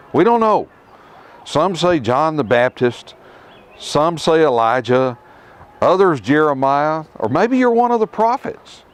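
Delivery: hesitant, rising, searching answers; a mock-unsure guess at who he is; unsure disciples. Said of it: "I can hear indecision in their voices".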